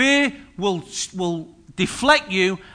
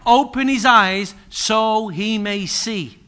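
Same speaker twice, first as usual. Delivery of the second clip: fervent prayer; 3 semitones higher, 5 dB louder, slower than usual. Retold or imitated. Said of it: "And Elisha prayed".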